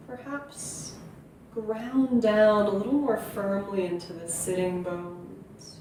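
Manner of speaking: unhurried meditation guiding with long pauses; guided meditation. Acted. Yoga teacher settling listeners into their seat, guided meditation. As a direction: ease them gently into stillness, leaving space between phrases.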